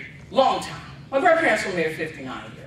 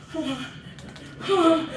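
gasping huh; 7 semitones higher, 3 dB quieter than usual. Retold or imitated. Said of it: "You hear him go".

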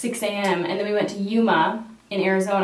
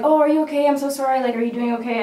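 mock concerned driver; 5 semitones higher, faster than usual. Boat driver fakes concern.

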